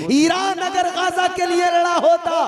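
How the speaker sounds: very high, impassioned oratory; full-force preaching. Real, not acted. Preacher rebuking Iran over Gaza, high full-force preaching. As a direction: cry it out to the crowd at a high pitch.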